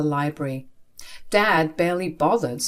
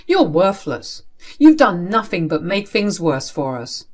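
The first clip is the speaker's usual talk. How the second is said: loud, firm condemnation; harsh berating; 4 dB louder than usual. Acted. Father blaming child for family troubles, harsh berating. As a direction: cut them down, firmly and loudly.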